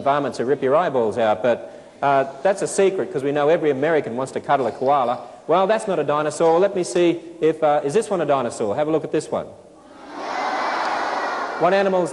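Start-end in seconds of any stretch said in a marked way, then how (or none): none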